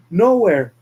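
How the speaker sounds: high, loud menacing roar; villain shout. Acted. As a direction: bellow it at the victim. Villain repeats the word shouting.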